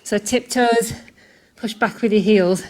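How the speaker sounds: breathing hard while coaching; panting between words. Real, not acted. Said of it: "Sorry if I'm breathing really loud".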